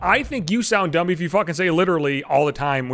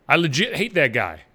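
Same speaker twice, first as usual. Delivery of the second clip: imitating someone saying I legit hate that guy; mock casual I legit hate that guy; mocking quote; 2 semitones lower than usual. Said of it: "they'll say legit".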